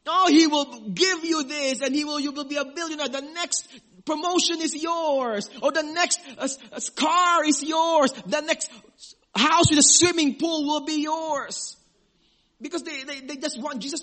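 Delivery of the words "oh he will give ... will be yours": loud, eager promises of riches; hyped-up preacher selling wealth; prosperity preacher. Retold or imitated. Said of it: "those kinds of sermons".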